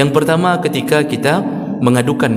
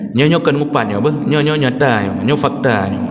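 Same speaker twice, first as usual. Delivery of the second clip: excusing gossiper; 2 semitones lower than usual. Retold or imitated. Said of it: "memaafkan dirinya sendiri dengan mengatakan".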